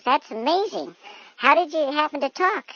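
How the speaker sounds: high, wonderstruck questioning; amazed. Acted. Man amazed by talking dog.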